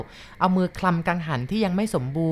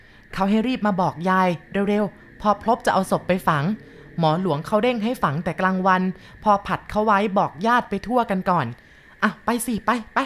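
hurrying woman; 3 semitones higher than usual. Acted. Sorn hurries grandma to the burial. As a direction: rush grandma along.

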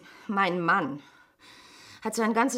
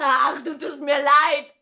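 bitter laugh; 7 dB louder, slower than usual. Acted. Bitter scorn with tears.

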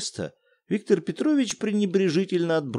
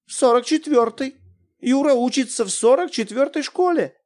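bewildered; 12 semitones higher, 4 dB louder than usual. Acted. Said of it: "растерянно сказала она".

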